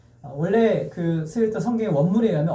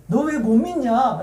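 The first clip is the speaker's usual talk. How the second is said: higher, drawn-out rebuking question; acted scolding; 5 semitones higher, slower than usual. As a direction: lightly play a master scolding his disciples. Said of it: "예수님이 제자들을 혼내실 때마다".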